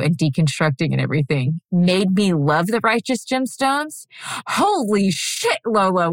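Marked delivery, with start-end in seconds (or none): 4.5-6.1 surprised. Real, not acted. Sees co-host's nosebleed.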